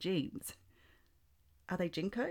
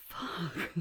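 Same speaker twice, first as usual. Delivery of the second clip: laughing; 3 semitones higher than usual. Real, not acted. Laughing during intimate scene.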